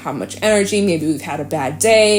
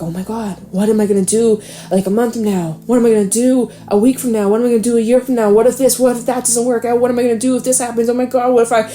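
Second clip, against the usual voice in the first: mock panicked spiral; 3 semitones higher, faster than usual. Reader voicing her own late-night fears, mock panic building. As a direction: voice climbing faster and higher into mock panic.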